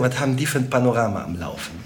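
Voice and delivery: quick Rhineland dialect quip; lightly Rhenish, rattled off fast; Rhineland accent. Acted. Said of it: "als Rheinländer würde ich sagen".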